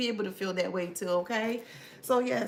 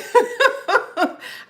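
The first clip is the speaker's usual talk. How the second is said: high laugh; 12 dB louder than usual. Real, not acted. Laughing at chat comment.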